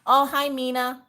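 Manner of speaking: put-on high sweet girl voice; high sweet child greeting; sweet little girl. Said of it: "one minute she'll be like".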